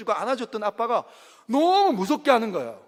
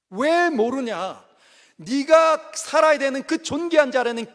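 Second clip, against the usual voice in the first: God scolding; 3 semitones higher than usual. Retold or imitated. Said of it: "주님이 그렇게 말씀하시는 겁니다".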